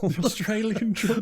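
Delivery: mock Australian accent; badly faked Australian twang. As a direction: echo it in a put-on Australian accent. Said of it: "Australian accents".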